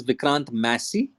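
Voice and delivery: "Massey" as MASS-ee; correct pronunciation. Shown as a demonstration. Actor correcting his surname for hosts, clear MASS-ee. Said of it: "it's actually pronounced as".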